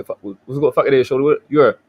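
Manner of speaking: quick, slurred Baltimore street talk; Baltimore accent. Shown as a demonstration. Showing the panel how Baltimore talks, Baltimore accent. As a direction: run it together in a Baltimore accent. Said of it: "that's how we talk".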